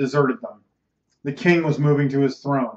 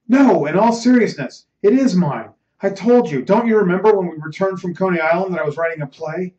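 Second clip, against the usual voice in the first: agitated insistence; 3 semitones higher than usual. Acted. Ernest reminding his disbelieving friend of his play, agitated. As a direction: press your claim earnestly.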